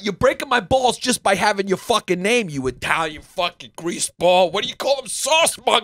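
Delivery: high, hammed-up Italian-American tirade; mock outrage. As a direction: rail at him in comic exasperation. Mock rant at an Italian name.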